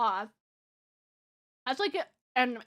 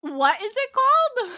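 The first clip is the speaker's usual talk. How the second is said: higher, louder, laughing mock repeat; laughing echo; 10 semitones higher, 6 dB louder than usual. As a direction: echo the phrase through disbelieving laughter. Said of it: "I did a quadruple take at chat".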